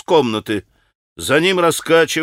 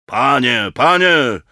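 pleading call, louder on the repeat; crying out; 4 dB louder, slower than usual. A narrator's reading. Mitya cries out to the pan in protest. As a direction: call out twice, the second more forceful. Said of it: "возопил Митя".

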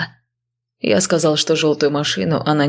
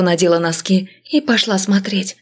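ordinary delivery

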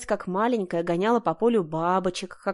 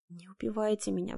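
softer, desperate begging; pleading; 7 dB quieter than usual. A narrator's reading. Heroine begging the bandits to spare her, soft plea. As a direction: beg for your life quietly. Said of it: "взмолилась я".

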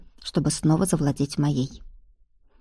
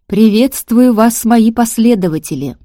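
a rusty dead machine forced to speak, creaking; otherworldly hollow voice; 4 semitones higher, 8 dB louder than usual. Acted. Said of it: "Потусторонний голос звучал странно и гулко".

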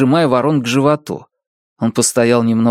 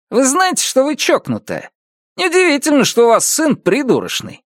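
high, nasty jeer; insulting sneer; 14 semitones higher than usual. A narrator's reading. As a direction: insult her son to wound. Neighbor insults her son. (язвительная насмешка)

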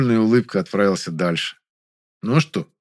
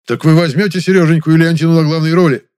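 loud, eager question; 7 semitones higher, 9 dB louder than usual. Acted. Director eagerly asking about leading roles, loud and excited. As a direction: press him eagerly.

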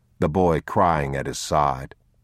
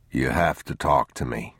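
subdued father; 5 semitones lower than usual. Acted. Man asks the silent boy to talk, subdued. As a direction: ask the child in a lowered voice.

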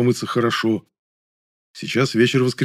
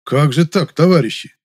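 displeased official; 6 semitones higher, 6 dB louder than usual. A narrator's reading. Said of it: "недовольно покачал головой второй мужик".

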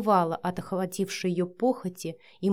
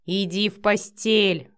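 growled order; 3 dB louder, slower than usual. Acted. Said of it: "прорычал Матвей".

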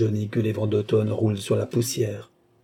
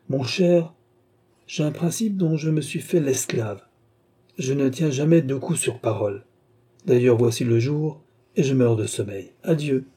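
cold baron; 3 semitones higher than usual. Acted. The baron coldly refusing the viscount's bet, detached. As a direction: brush him off with polite indifference.

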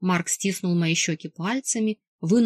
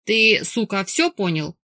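roaring. Acted. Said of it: "взревел Марк".

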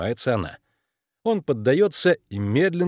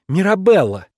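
sharp loud cut-in, higher; interrupting exclamation; 7 semitones higher, 8 dB louder than usual. A narrator's reading. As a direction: cut him off with the name, loudly. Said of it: "Она перебивает". (перебивает громким возгласом)

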